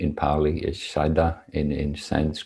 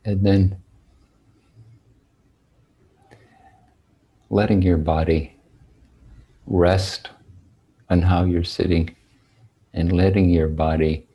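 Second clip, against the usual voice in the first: unhurried meditation guidance with long, spacious pauses; guided meditation. Real, not acted. Teacher settling sitters on their cushions, spaced-out meditation guidance. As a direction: guide sitters gently into posture, phrase by phrase.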